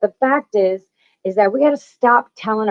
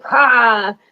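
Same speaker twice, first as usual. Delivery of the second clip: slow, higher mocking inner critic; a put-on voice for the nagging ego; sneering ego voice; 3 semitones higher, slower than usual. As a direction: taunt yourself like a nasty ego. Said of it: "Ego's like".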